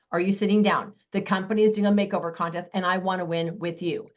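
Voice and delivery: bubbly, eager video-message pitch; excited. Shown as a demonstration. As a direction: gush about the trip to win her over. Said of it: "I literally sound this excited".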